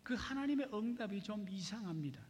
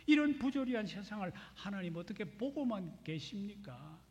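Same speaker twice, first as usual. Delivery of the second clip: raised, louder pleading protest; indignant outcry; 4 semitones higher, 4 dB louder than usual. Retold or imitated. Preacher voicing the prophet's complaint to God, raised indignant pleading. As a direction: cry out to God in mild mock indignation. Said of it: "이렇게 울분을 토하는 것이".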